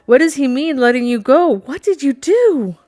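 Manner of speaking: high, loud frantic questioning; frantic questions. A narrator's reading. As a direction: press him in rising panic. Frightened woman presses her friend.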